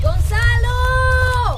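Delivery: long drawn-out shout across the hills; calling out. Acted. Searching for missing Gonzalo, a long calling shout. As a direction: call his name far and high.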